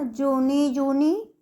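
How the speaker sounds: both words जोनी given weight, recited; stress on जोनी. Shown as a demonstration. Teacher reciting a children's poem to students, stress on जोनी. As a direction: lean on each जोनी as in a rhyme. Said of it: "जोनी के ऊपर हमारा stress ज़्यादा लगा है".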